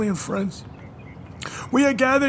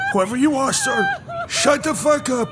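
angry shout; 5 semitones higher than usual. Acted. Rabbi yells at singer.

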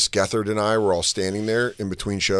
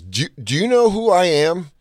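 questioning; 7 semitones higher than usual. Retold or imitated. Che asks fan, retold.

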